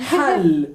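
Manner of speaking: "Hal" with a tight Arabic ح from deep in the throat; low "Hal", Arabic ḥ as in حل; pharyngeal h. Shown as a demonstration. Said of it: "tres palabras con ja y ja y ja".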